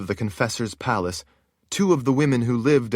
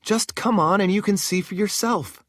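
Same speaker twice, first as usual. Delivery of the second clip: a hint of a higher woman's voice; lightly voiced sorceress; 11 semitones higher than usual. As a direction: speak with relief. Narrator voices Shale.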